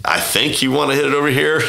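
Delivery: high, timid caddie tip; mock sheepish advice. Caddie telling Tiger where to hit, high and sheepish. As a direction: imitate yourself squeaking advice to a legend.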